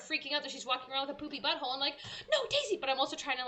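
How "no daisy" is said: quiet panic. Retold or imitated. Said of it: "panic quietly 'cause Nate's asleep".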